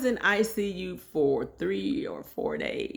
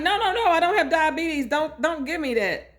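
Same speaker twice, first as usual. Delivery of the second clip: higher, louder mock alarm; retold protest; 11 semitones higher, 3 dB louder than usual. Patient refusing the insulin shot, mock alarmed. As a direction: act out the panicked refusal.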